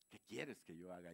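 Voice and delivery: Saulo temeroso, más bajo y suave. Acted. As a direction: pregunta rendido, con un toque de temor. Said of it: "y temeroso". (Saulo caído responde al Señor, temeroso)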